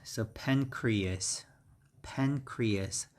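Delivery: "pancreas" with the first syllable stressed, then falling; careful teacher's "pancreas", PAN-cre-as. Shown as a demonstration. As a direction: model "pancreas" slowly, weight on "pan". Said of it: "The stress is on the first syllable".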